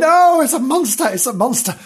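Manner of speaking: high cry of alarm, easing on the repeat; storybook fright; acted panic. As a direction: wail it in mock terror. Animals swept up, terrified.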